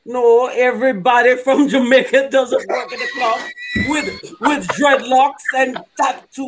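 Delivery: offended protest broken by laughs; laughing protest. Acted. Offended club guy protests to the group, laughing. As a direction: laugh while taking offense.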